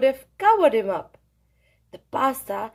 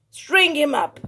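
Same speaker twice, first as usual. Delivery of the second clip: angry shout; 3 semitones higher, 4 dB louder than usual. Acted. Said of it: "the men of the town shouted".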